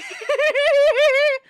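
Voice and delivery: high loud burst of laughter; real laughing burst. Real, not acted. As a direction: laugh out hard.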